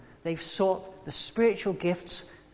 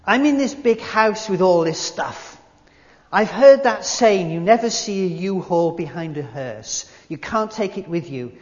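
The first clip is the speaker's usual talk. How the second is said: Hollywood star; 8 dB louder than usual. Retold or imitated. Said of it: "imagine I'm some big Hollywood dude now".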